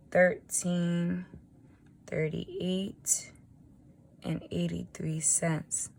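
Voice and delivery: hoarse early-morning voice; raspy, half-whispered numbers. Real, not acted. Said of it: "I know I sound a little raspy".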